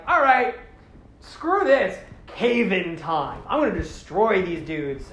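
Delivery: a hero snapping and deciding to smash things; fed-up outburst. Retold or imitated. Onua fed up with the fight, loud fed-up outburst.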